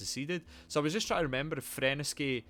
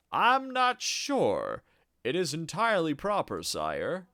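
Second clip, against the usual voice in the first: flustered duke; 3 semitones higher than usual. Acted. Duke answers god in dialogue.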